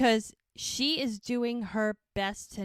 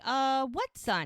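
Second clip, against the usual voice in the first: slow, higher-pitched incredulous query; acted disbelief; 5 semitones higher, slower than usual. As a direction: question it, drawn out and doubtful. Acted exasperated reply in story.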